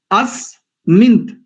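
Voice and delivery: अस्मिंत stretched, nasal before त; careful अस्मिंत; slow demonstration. Shown as a demonstration. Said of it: "देखो मैं बोल रहा हूं".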